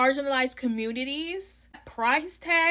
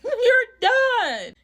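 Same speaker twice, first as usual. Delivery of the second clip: higher, louder, laughing "You're done"; 12 semitones higher, 8 dB louder than usual. Retold or imitated. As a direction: laugh it out, mocking.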